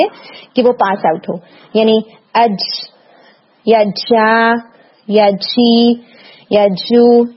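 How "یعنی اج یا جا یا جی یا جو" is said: اج، جا، جی، جو with a weak hit and air escaping; loose airy jeem. Shown as a demonstration. Teacher imitating the student's error: loose, airy jeem. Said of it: "یوں بہت loose سا ہٹ ہوتا ہے".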